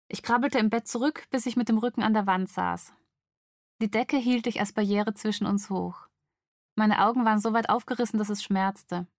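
measured, dramatic audiobook reading; story narration. A narrator's reading. Woman woken by intruder at night, story narration. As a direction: read a suspense scene with pauses between sentences. Reads novel scene aloud.

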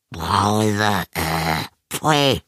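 drawn-out snarl of disgust; spitting vampire. A narrator's reading. Vampire rejects the soda, hissing disgust. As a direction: snarl it, then spit out the last word. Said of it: "fauchte der Vampir".

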